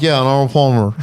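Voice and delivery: Arnold Palmer slurred together, "Arnl Palmer". Shown as a demonstration. Guest shows how she slurs the drink's name.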